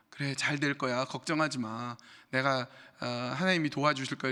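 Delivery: lightly mocked empty reassurance; perfunctory comfort. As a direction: comfort someone while looking away, half-hearted. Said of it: "너무 형식적으로 위로하는 거예요".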